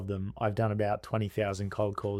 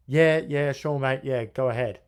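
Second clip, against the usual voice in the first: impatient tradesman; 2 semitones higher, 5 dB louder than usual. Retold or imitated. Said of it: "I'm gonna do an impersonation".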